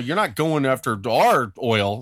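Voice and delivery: slow, put-on voice of America objecting; mock indignant Americans. Podcaster voicing Americans warning Iraq, in slow mock indignation. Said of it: "Yeah, they're all".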